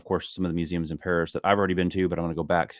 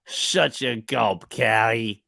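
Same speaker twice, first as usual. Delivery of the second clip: slow, hammed-up Yorkshire accent; imitating husband's Yorkshire accent; 4 semitones higher, 3 dB louder, much slower than usual. Imitating what husband says, in a hammed-up Yorkshire accent. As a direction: drag out the Yorkshire vowels like the husband. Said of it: "That's what he says".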